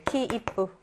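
키, 이쁘 in three even beats; 키, 이쁘 with a beat for the stop. Shown as a demonstration. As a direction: count out 키, 이쁘 as three sounds. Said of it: "세 박으로".

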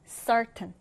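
certain stressed on CER; stress on first syllable. Shown as a demonstration. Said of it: "첫 음절의 강세를 두고". (certain 첫 음절 강세)

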